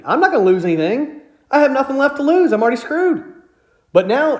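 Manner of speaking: indignant retelling of telling someone off; retold snapped rant. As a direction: lay into them with mild heat. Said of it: "I just snapped".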